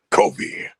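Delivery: breathy whisper of a name. Retold or imitated. Karrion Kross calling to Kofi from the wall, whispered. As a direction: whisper it from the shadows. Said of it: "and he's like".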